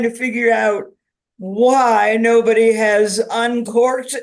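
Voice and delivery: lightly voiced tipsy wine bottle; a touch tipsy and playful.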